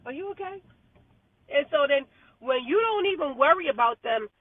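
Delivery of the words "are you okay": higher and softer "Are you okay?"; soft incredulous ask. Retold or imitated. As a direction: murmur it in disbelief.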